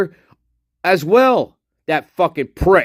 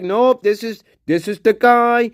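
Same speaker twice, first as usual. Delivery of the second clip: higher, sneering know-it-all voice; mock the detective's smug certainty, pitched up; mocking Ken Maines; 5 semitones higher than usual. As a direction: mimic him as a smug expert. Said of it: "He, he was like".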